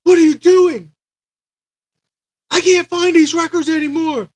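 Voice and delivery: annoyed adult. Retold or imitated. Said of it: "he got so pissed at us".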